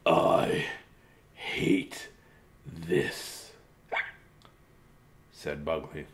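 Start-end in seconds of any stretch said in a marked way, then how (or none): 0.0-3.5 low, soft, drawn-out grumble; quiet, halting misery between hiccups; miserable complaint. Acted. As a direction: voice a worn-down story character. Hiccuping character complains in story.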